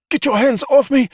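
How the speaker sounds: high, loud furious snarl; snarling at her captor. A narrator's reading. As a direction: spit it at the man holding her. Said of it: "she snarled".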